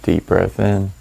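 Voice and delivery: calm, measured meditation voice with long pauses; guided meditation. Acted. Meditation guide settling listeners into their breath, calm guided meditation. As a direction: ease them through each breath and let silence sit between phrases.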